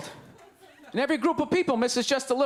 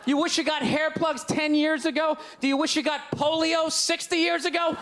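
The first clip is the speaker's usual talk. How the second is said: incredulous mock; 2 semitones higher than usual. Real, not acted. Mocking the commercial, shouting.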